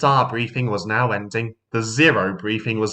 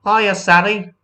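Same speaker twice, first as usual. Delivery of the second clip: higher louder greeting; cheerful call; 10 semitones higher, 6 dB louder than usual. A narrator's reading. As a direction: call out happily. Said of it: "Ten Cents called cheerfully".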